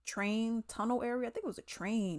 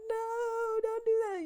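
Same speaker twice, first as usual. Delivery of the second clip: yelling at the TV; slower than usual. Retold or imitated. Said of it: "I got all the emotion".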